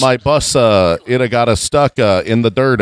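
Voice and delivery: put-on fumbling bus driver in Italian accent; cartoon Italian voice; mock Italian accent. Mocking stereotype accents.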